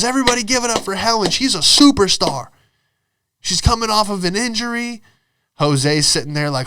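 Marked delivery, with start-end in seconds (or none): 0.0-5.0 high, mock-rousing announcement; hyping sales manager. Manager making injured Helen a hero, high hammed-up hype. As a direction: imitate a boss whipping up applause.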